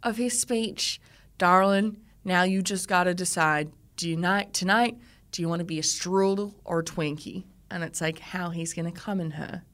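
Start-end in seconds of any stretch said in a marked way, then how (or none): 1.4-7.4 imitating a smug American groom; put-on American accent. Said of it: "did you like my American accent".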